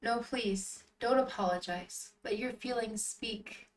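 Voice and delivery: gentle acted reassurance; soothing, comforting. Yale consoling a crying Rinku, soothing. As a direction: comfort someone who is crying. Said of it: "His words are so soothing and comforting".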